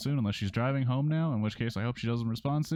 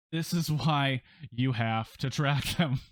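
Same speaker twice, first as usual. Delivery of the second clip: slow, drawn-out delivery; pictured delivery; 2 semitones higher, slower than usual. Acted. Dad reacting to daughter's late return, slow and drawn out. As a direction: stretch each word out slowly. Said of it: "I pictured you saying it like that".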